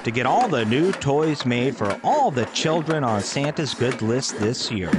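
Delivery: storyteller's delivery, drawing out the last phrases; story narration. A narrator's reading. Narrator telling of Santa's toy shop before Christmas, story narration. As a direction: narrate with slow, suspended final phrases.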